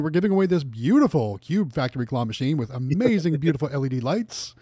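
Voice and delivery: booming game show announcer; Price is Right announcer. Shown as a demonstration. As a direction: sell the prize like a TV announcer. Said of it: "I was going for The Price is Right announcer voice right there".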